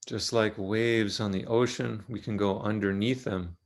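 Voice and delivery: calm, unhurried guidance with long pauses; measured meditation-teacher delivery; guided meditation. Real, not acted. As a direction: ease listeners gently into the body, leaving long silences. Leads a guided body meditation.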